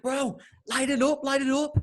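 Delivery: very high put-on Russian accent; Russian taxi driver. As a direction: urge them on as a Russian cabbie. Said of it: "I've got this Russian taxi driver".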